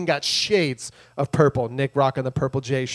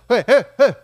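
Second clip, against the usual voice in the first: loud, raised "hey, hey, hey"; imitated calling out; 6 semitones higher, 7 dB louder than usual. Jailer calling for someone to bring lights, mock urgent shout. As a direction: call for help, louder and higher, playfully.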